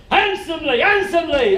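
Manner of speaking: loud, high, falling twice; urgent repeated shout. Retold or imitated. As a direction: rein them in with a sharp repeated yell. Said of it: "and he goes".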